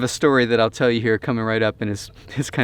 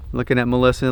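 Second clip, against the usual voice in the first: ordinary talk, nothing marked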